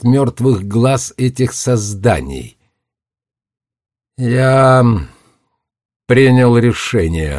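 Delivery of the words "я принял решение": announcing. Acted. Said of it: "объявил он".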